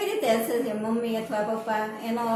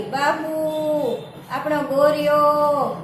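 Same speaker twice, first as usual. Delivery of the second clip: drawn-out, louder cry of joy at finding him; excited discovery cry; 5 dB louder, slower than usual. Acted. Girl at dinner discovering the lost ox, excited cry. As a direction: shout with delight, stretching the words. Daughter finds lost ox in bread.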